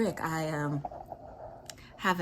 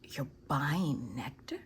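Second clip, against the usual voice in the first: neighbor's hushed reply; 2 semitones lower, 7 dB quieter than usual. Retold or imitated. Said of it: "And she said".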